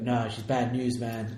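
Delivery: very slow, laid-back cool-guy drawl. Imitating a character's line as a cool guy: imitating a cool guy. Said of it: "you could be a cool guy".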